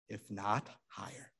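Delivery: soft, low aside; quietly. A narrator's reading. Litvak quietly adding to the tale, hushed. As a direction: say it softly with quiet awe. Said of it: "add quietly".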